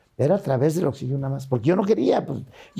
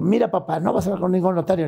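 higher, brisk retold objection; son's firm refusal; 5 semitones higher, faster than usual. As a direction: push back at dad, pitch raised. Son refusing father, retold quarrel.

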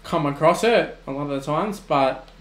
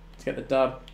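ordinary talk

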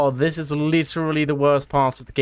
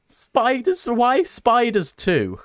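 surprised; 10 semitones higher, slower than usual. Real, not acted. Sudden spiders in horror game.

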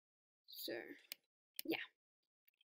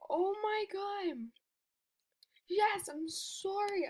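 high, loud tearful cry; joyful crying shout; 8 semitones higher, 4 dB louder, slower than usual. Real, not acted. Gamer thrilled by the drop, joyful crying shout. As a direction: let the joy break through in tears. Happy crying over rare item.

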